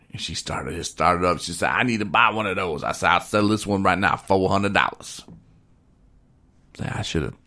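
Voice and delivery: lightly put-on country storytelling accent; hillbilly storyteller. Telling his wing-night story to the listener, mild hillbilly accent. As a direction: spin the yarn with a hint of hillbilly drama. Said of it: "angry hillbilly".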